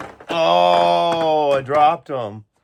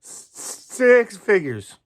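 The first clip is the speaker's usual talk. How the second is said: dramatic show announcer, drawn out; hammed-up announcer voice with a slow title; announcer intro; 7 semitones higher, much slower than usual. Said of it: "You like that?".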